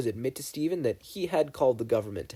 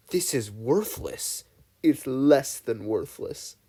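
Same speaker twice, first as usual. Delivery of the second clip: deadpan scorn; much slower than usual. A narrator's reading. Agent scorns fake bill.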